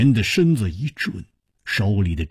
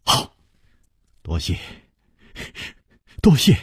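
delighted; 6 semitones lower than usual. A narrator's reading. Hero thanking the youth for the letter, delighted. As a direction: start hushed, lift on the repeat. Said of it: "楚留香大喜地说".

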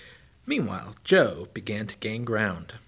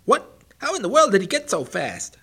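very high, loud panicked disbelief; the hare hears cheers and panics; panicked shock; 10 semitones higher, 9 dB louder than usual. Acted. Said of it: "panic gripped his mind".

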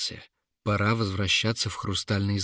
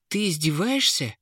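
growl; 7 semitones higher than usual. A narrator's reading. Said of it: "зарычал Торан".

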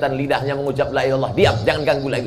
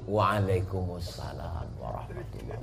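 answer behind the door; 6 semitones lower, 13 dB quieter than usual. Acted. A companion answering softly from behind the door.

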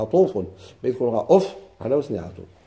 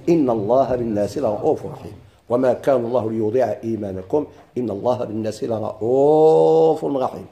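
recitation; 3 semitones lower than usual. Shown as a demonstration. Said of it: "Quran recitation".

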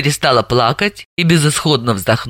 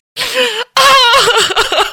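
bursting into sobs. Acted. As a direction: break down into a wail. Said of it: "ахнула и разрыдалась".

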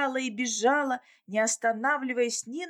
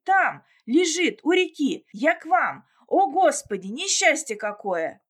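sobbing; 4 semitones higher, 7 dB louder than usual. A narrator's reading. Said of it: "прорыдал несчастный".

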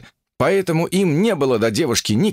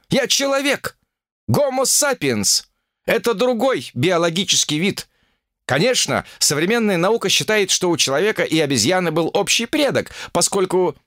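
put-on higher, know-it-all young woman; explaining evolution to fools; lecturing Olga; 9 semitones higher than usual. Ольга объясняет эволюцию. (Ольга поучает китайцев, голос выше)

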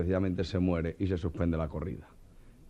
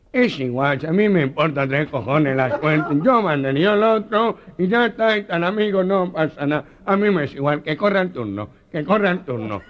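higher, louder frantic excuses; panicky plea; 8 semitones higher, 8 dB louder than usual. Retold or imitated. The Meloja begging Joselito to swap bulls, panicked and shrill. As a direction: wriggle out of it in a panic.

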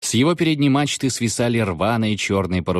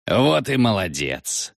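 solemn; slower than usual. Acted. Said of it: "торжественно произнёс Бритва".

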